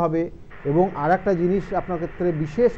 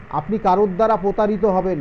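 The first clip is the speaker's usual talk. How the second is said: ordinary delivery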